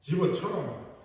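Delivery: drawn-out Gyeongsang 집어쳐라, slowly; lightly imitating a gruff Gyeongsang husband brushing her off; slow, curt Gyeongsang dismissal; slow, blunt Gyeongsang. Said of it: "경상도 남자는 한마디 한다".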